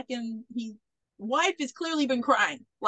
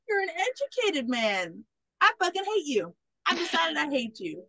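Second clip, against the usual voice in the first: higher-pitched mock grudge; mock disdain; 5 semitones higher than usual. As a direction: voice a rival's lightly hammed-up dislike. Retold rival takes against Doc.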